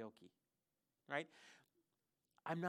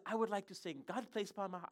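imitated Ugandan accent, a little higher; bad Ugandan accent; 4 semitones higher than usual. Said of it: "I'm doing a really bad accent".

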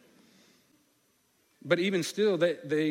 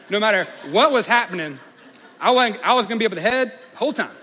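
emphatic comic insistence; 6 semitones higher, 10 dB louder than usual. Real, not acted. New dad telling listeners where he'd stay, loudly emphatic. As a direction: belt it out to make the crowd laugh.

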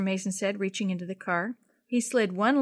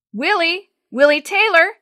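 higher, louder searchers shouting a name; 8 semitones higher, 11 dB louder than usual. A narrator's reading. Rescuers searching the forest for the boy, shouting. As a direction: call across the woods. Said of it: "Several voices were shouting Willie's name".

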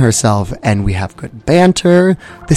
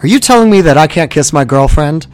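cocky challenge; 5 semitones higher, 6 dB louder than usual. Acted. Boyfriend challenges the guard.

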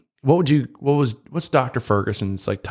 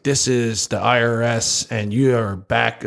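slow, lightly put-on scam caller; imitated scam caller; slower than usual. Podcaster mimicking an IRS scam caller, slow and lightly mocking. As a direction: imitate a phone scammer, slowly and deliberately. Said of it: "these scam people".

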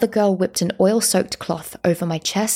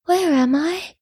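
high, small confused voice; dazed little boy; 10 semitones higher, slower than usual. A narrator's reading. Revived boy opens his eyes by his mother, dazed high voice. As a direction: ask it as a bewildered child waking.

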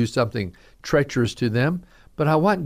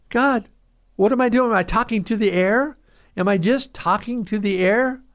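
desperate plea; 7 semitones higher than usual. Acted. Pleading to God in despair.

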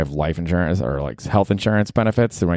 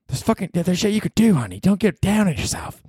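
much higher, soothing partner voice; comforting partner voice; 12 semitones higher than usual. Acted. A partner comforting Danny, higher and soothing. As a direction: coo it like a doting partner.

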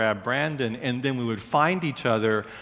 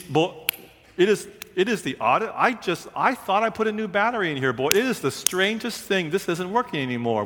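mock puzzled dad; 6 semitones higher, faster than usual. Dad pretends the lantern broke.

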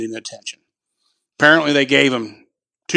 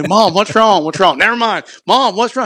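worried son; 8 semitones higher, 4 dB louder than usual. Retold or imitated. Retold quarrel with angry mom.

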